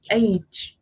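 age ending audibly in ch; age with final ch sound. Shown as a demonstration. Teacher summing up the contrast for a pupil, age with a final ch. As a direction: say A, then add ch for age. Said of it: "âm ch ở đằng sau".

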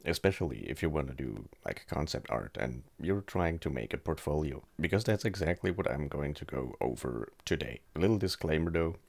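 speaking with a swollen jaw; talking stiffly after jaw surgery; with a sore jaw. Real, not acted. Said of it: "if I sound a little weird".

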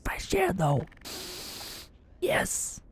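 hushed whisper, barely any voice. Real, not acted. Sneaking past enemy soldiers, whispering to himself. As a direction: whisper so the soldiers nearby don't hear. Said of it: "Better keep my voice down".

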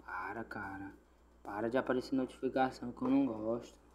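whispered complaint; cursing under breath. Real, not acted. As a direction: hiss it under your breath. Irritado com notificação. (reclamando sussurrado)

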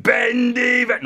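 put-on loud, high wilful boy; defiant shouting. Boy overruling his conscience, defiant shout. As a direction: shout back, set on doing it.

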